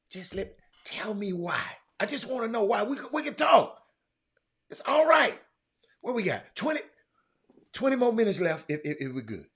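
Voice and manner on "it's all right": cracking whisper. Real, not acted. Comforting viewers, voice cracks.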